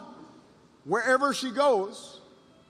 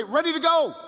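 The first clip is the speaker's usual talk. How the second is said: raised, high call from the back; imitated rallying call; 7 semitones higher, 4 dB louder than usual. Woman at the back leads the room, called out high. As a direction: throw out the second half of the chant. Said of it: "I hear the voice say".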